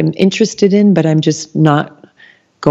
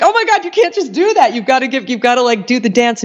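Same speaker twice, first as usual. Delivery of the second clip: much higher, anxious and fast; mock panic; 9 semitones higher than usual. Host imitating her own anxious self, much higher mock panic. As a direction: fret like you've broken a rule. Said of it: "'cause I'm like".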